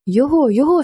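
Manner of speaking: two voices crying out at once, lightly voiced; startled cry. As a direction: blurt it out in alarm. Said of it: "скрикнула разом і Розалія".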